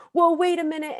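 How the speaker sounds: high startled call; flustered parent. Retold or imitated. Parent stopping kids at the lift, high alarmed whoa. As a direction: call them back, caught off guard. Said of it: "And you're like".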